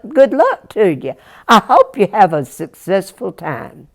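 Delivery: lightly voiced earnest country boy; Jack, polite mountain boy. Jack turning down his brothers, earnest and polite. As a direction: bid them well, politely, with a lift at the end. Jack's voice in the tale.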